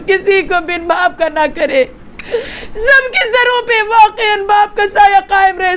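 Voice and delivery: tearful preaching that keeps breaking into sobs; weeping majlis lament. Real, not acted. Preacher mourning Karbala before the congregation, weeping lament. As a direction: wail the mourning sermon through tears.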